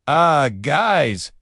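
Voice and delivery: high, loud nervous call. A narrator's reading. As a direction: sound suddenly worried. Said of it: "Jake said nervously".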